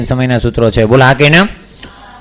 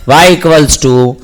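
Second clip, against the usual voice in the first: each word drawn out very slowly, x0.2 pace; slow dictation; much slower than usual. Shown as a demonstration. Teacher dictating the equation to the class, very slow and deliberate. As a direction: spell the formula out word by word for students to copy.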